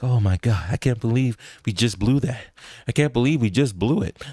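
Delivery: put-on, devastated groan. Voicing a player, hands on knees, after a shot forces overtime: voicing a devastated Chris Paul. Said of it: "you see Chris Paul with his hands on his knees like".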